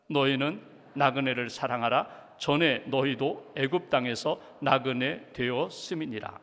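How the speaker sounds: low congregational verse recitation; scripture reading. Real, not acted. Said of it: "십구 절 같이 봉독합니다". (낮은 음으로 함께 읽는 성경 봉독)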